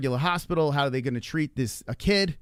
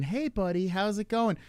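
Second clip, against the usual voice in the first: higher, easygoing mock nurse greeting; casual, unworried nurse impression, pitched up; imitated calm nurse; 6 semitones higher, 3 dB quieter than usual. Nurse greeting a choking kid, imitated breezy calm. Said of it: "everyone's super calm there".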